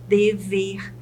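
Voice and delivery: "dever" split into de, ver; syllable by syllable. Shown as a demonstration. Teacher shows two syllables to students, "dever" syllable by syllable. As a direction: pause between both syllables of "dever". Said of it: "Se ela tem duas sílabas".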